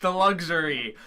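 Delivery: savoring, indulgent character voice; lightly voiced anime character; manga character voice. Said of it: "That's what he sounds like".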